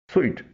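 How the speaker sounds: स्वीट said like "sweet"; careful स्वीट, same sound as the word for sugary; correct pronunciation. Shown as a demonstration. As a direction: say स्वीट with "swee", not "soot". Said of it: "इसका सही pronunciation है".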